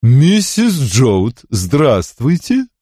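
slow, drawn-out giantess voice; booming giantess. Acted. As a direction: drone the greeting slowly like a big woman. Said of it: "великанша прогудела".

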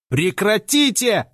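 drawn-out commanding yell; bellow. A narrator's reading. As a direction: shout to freeze the whole room. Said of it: "заорал я на всю прачечную".

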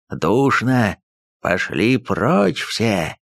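slow inhuman shout; eldritch horror. Acted. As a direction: bellow it inhumanly, slowly. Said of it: "нечеловеческим голосом закричал Устюгов".

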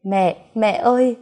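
loud, slow anguished wail for mother; grief-stricken scream; wailing cry. Acted. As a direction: cry out for her as she dies. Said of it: "Tôi gào lên".

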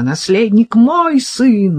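high, loud and slow, pressing мой; cling to the word мой, crying it out; desperate cry. Acted. Mother defends her son's claim. (отчаянный крик, ударение на «мой»)

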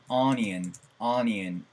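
onion said as "anin", short uh vowels; anin sound. Shown as a demonstration. Teacher drilling onion with reduced vowels. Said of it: "오니언이 아니고 어떻게 읽죠?".

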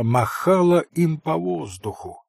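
ordinary delivery, nothing marked

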